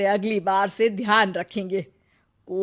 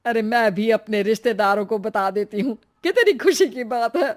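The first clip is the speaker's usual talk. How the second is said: thrilled mother; 3 dB louder than usual. Acted. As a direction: gush like a delighted old mother.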